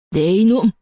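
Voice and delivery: stern scolding. A narrator's reading. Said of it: "호통을 치더니".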